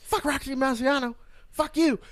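Coming to America quote. Retold or imitated. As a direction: do the barbershop guy from the movie. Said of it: "that's from Coming to America".

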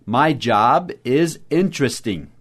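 My job is interesting said slowly and clearly; slow model sentence. Shown as a demonstration. Teacher modelling the sentence slowly for students. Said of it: "nós praticamos falar sobre o nosso emprego assim".

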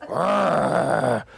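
slow, growling flirt; gay bear. Acted. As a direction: growl and show off like a camp bear. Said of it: "I'm doing a gay bear".

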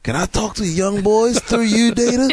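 squeaky mocking question; high silly voice. Joking high voice.

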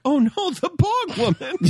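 high, shocked cry of alarm; dramatic character voice. Retold or imitated. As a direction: gasp it out in a high panicked voice. Mimicking character in retold episode.

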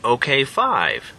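slow robotic cow statue voice; talking cow. Acted. Talking cow statue counting the group, slow and mechanical. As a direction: count them slowly like a machine. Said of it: "said the cow".

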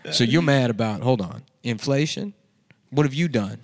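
mock indignant press briefing; press conference rant. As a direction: lecture the reporters, lightly hammed. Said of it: "This is me at the press conference".

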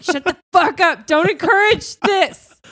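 loud mock annoyed snap. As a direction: shout them down, fed up. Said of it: "And I'm like".

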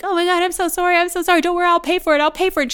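high, loud panicked apologizing; mock flustered drunk saying sorry; frantic apology. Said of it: "he was like".

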